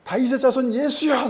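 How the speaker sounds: high-pitched imitated calling out. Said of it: "더 큰 소리로".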